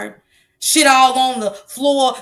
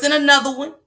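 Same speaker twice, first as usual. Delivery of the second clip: a DJ's voice; 3 semitones higher, faster than usual. Retold or imitated. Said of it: "In my DJ voice".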